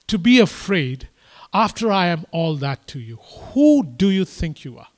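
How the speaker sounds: a preacher voicing God's stern challenge to fearful Jacob; God rebuking. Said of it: "So here is what God is saying".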